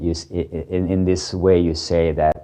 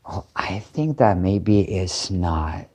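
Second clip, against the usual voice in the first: hesitant hedging; slower than usual. Shown as a demonstration. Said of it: "it will sound in English like".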